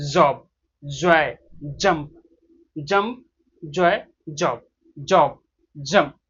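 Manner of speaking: "जॉब", "जॉय", "जंप" word by word with a voiced j; demonstrated J sound. Shown as a demonstration. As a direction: slowly drill "जॉब", "जॉय", "जंप", pausing between words. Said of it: "touch करेंगे और vibration आने देंगे".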